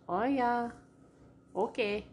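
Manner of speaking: lilting Fargo-style agreement; Fargo accent. Acted. Imitating how people talk down here, Fargo accent. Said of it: "It's that Fargo accent".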